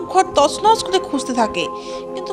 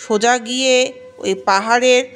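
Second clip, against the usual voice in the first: solemn, measured pronouncement on an even tone; all-knowing ghost chief; 3 semitones lower than usual. Acted. Ghost chief sends the ogress for magic water, solemn command. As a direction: hand down a stern instruction.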